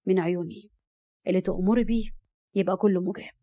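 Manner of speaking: indulge her tenderly; understated affection; loving. A narrator's reading. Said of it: "وهو بيقول بحب".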